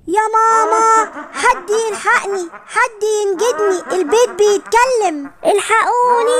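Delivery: mildly panicked, calling out for rescue; scared cry for help. Acted. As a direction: call out for mama, stretching the words.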